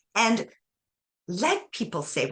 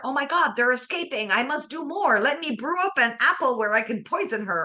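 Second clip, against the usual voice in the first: mock evil witch; 4 semitones higher than usual. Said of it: "the evil witch".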